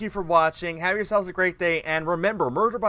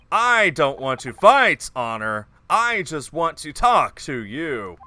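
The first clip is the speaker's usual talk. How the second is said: slow, hammy earnest pleading; lightly voiced bad actor; 2 semitones lower, 3 dB louder, slower than usual. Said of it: "this bad actor voice".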